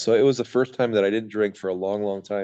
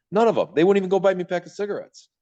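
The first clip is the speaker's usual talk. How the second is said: much higher and louder, bitter punchline; emphatic; 10 semitones higher, 4 dB louder than usual. Real, not acted. Telling the host none of his friends would visit, loud and bitter. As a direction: hit it hard, disgusted.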